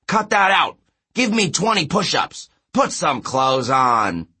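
high, loud drill-coach holler, last order stretched out; Coach Hedge yelling. A narrator's reading. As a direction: bellow orders like an irate gym coach. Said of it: "Coach Hedge yelling".

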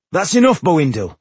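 loud high cutting-off shout; sharp shout. A narrator's reading. Tungdil cuts off a quarrel.

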